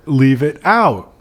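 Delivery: slow mock cockney; lightly put-on cockney; cockney alternative offered as the author's reply; cockney accent.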